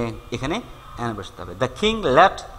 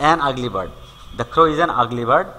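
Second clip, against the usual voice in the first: slow, deliberate reading of the example; much slower than usual. Shown as a demonstration. Teacher reading an example to students, slowly. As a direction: spell it out slowly for the class. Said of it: "teacher reads example slowly".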